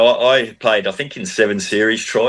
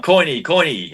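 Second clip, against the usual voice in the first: high, called-out mock yell of a name; calling his name across the field, pitched up; retold yelling; 8 semitones higher than usual. Teammates calling out to him after training, mock yelling. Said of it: "Alf and Kev are yelling at me".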